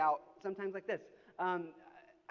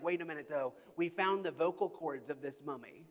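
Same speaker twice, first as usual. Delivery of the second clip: building excitement. Retold or imitated. News promoting the mummy again.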